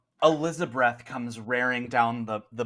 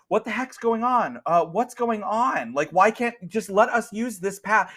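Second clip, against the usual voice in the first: higher, slow exasperated complaint; annoyed crowd; 8 semitones higher, 4 dB louder, slower than usual. Acted. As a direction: groan together at the holdup. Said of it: "everyone's just like".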